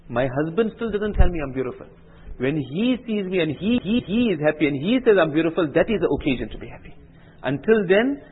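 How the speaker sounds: a bride explaining to her friends with rising feeling; earnest bride's reply. Acted. Bride's quote, preacher heightens.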